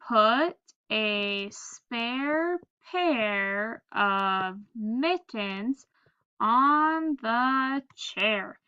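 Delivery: slow, word by word read-aloud; slow, deliberate reading for children; slow choral reading. Shown as a demonstration. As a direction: read it out slowly together with the class. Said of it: "Let's read it together".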